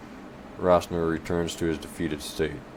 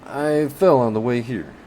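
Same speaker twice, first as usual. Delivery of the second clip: quick, higher and louder retort; spat out; 6 semitones higher, 6 dB louder than usual. Acted. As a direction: spit it out to end it. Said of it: "he spits out".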